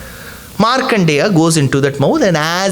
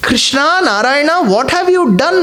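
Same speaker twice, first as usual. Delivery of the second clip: startled cry; 7 semitones higher than usual. Acted. Markandeya cries out realizing.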